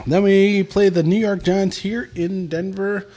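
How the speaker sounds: put-on London accent. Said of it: "Can you do that in a London accent?".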